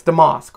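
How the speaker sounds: Damask with a broad "ah", like "duh-MOSK"; pronunciation guess. Shown as a demonstration. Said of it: "I always say this wrong".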